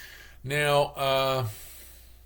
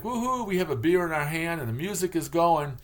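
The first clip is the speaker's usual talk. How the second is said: party whoop; 6 semitones higher than usual. Retold or imitated. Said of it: "and then it was like".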